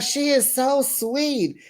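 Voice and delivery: sweetly gushing. Retold or imitated. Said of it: "She's like".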